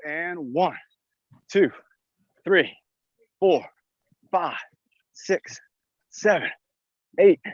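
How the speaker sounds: counting mid-exercise, bouncing with effort; doing jumping jacks. Real, not acted. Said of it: "Let's do the jumping jacks".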